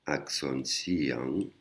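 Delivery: nom de la leçon articulé. Shown as a demonstration. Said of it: "une leçon qui s'appelle".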